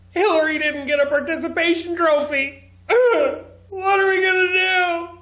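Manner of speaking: hammed-up high wailing with fake sobs; badly faked tearful whine, broken by mock laugh-sobs; mock crying. Commentator mocking a tearful teacher after the election, fake crying. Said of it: "So emotional".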